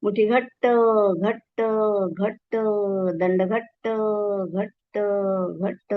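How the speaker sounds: cues spoken on a held breath; tense, speaking while holding breath. Acted. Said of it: "श्वास धरून ठेवा".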